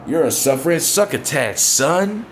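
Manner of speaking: a hint of Roman Reigns hamming it up, son shouted; mock Roman Reigns promo. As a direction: parody a cheesy wrestling promo line, ending in a yell. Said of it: "He said".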